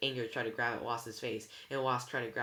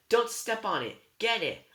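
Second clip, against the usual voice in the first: high, loud frantic orders; urgent warning; 9 semitones higher, 8 dB louder than usual. A narrator's reading. Girl directing friend to the dropped eye, urgent shout. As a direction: call out sharply, pitched up.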